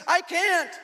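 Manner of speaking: high, loud helpless cry; frantic reply. Retold or imitated. Taylor answering the man under the porch, imitated frantic holler.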